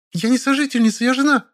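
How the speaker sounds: indignant squeal correcting the word; shrieking. A narrator's reading. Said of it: "взвизгнула Зайка".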